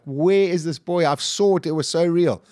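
high-pitched mock cry of desperation, not a full scream; retold screaming. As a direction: act out a frantic cry, pitched well up. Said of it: "I'm screaming, I'm screaming, I'm crying".

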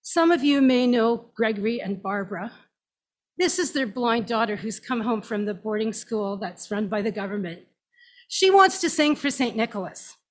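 put-on a boss introduces a girl to the party over the microphone, loud and public; announcing into microphone. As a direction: present her to the crowd like the company boss. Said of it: "Into it," he said".

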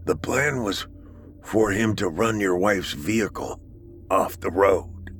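strained, breathy confession; weak dying whisper. Acted.

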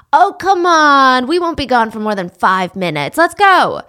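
lightly acted wheedling to get them going; coaxing. Driver urges hesitant girl into the car, coaxing.

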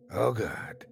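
soft dismayed mutter. A narrator's reading. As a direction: mutter it under your breath. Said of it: "he muttered".

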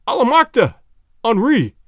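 high, loud, wild outburst; wild exclamation. A narrator's reading. Starving man hears of food and calls his friend, exclaiming wildly. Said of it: "exclaimed the man with a wild laugh".

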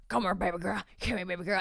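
a light mock Southern country accent, lovey; imitating a country boyfriend, lightly Southern; country drawl. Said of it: "they're not even that country".

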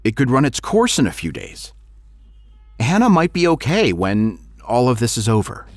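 a father pleading over the phone; worried father. Acted. Father voiced in story.

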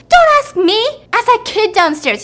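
high, loud retort; pissed off. Retold or imitated. Angry girlfriend answering the other woman, loud and high. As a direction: throw it back in a furious shout. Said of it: "she's pissed, okay".

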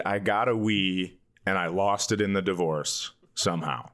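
ordinary delivery

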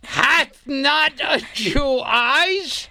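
slow, tearful hammy delivery; theatrical Shakespeare. Acted. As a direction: overact the bard's plea. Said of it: "I like how you do that iambic pentameter".

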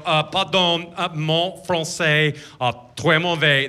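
put-on halting tourist French accent; attempted French. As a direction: fumble through French hesitantly. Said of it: "walk in and attempt French".

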